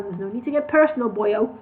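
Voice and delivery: warning tone. Acted. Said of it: "in a warning, warning tone".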